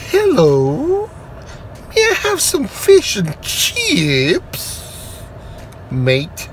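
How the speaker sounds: high, soft, slow put-on British voice; mock British accent. Ordering fish and chips at the counter, mock British accent. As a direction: order like a cheeky Londoner. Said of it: "U K fish and chips from the motherland".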